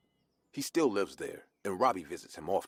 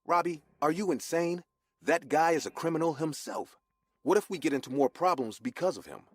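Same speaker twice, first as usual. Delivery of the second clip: higher, louder, alarmed disbelief; worried alarm; 9 semitones higher, 4 dB louder than usual. A narrator's reading. Boy to his friend, alarmed and higher. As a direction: cry out that he must be insane. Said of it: "looked at him with worried eyes".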